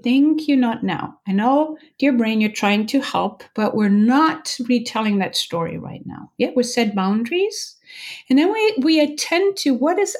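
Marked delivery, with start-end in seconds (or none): 0.0-6.3 gently. Retold or imitated. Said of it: "very gently say".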